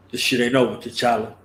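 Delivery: mock serious threat. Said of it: "looking all serious".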